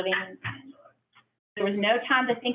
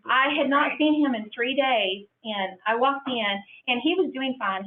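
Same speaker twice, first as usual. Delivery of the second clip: tearful; 3 semitones higher than usual. Real, not acted. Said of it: "I'm gonna cry again".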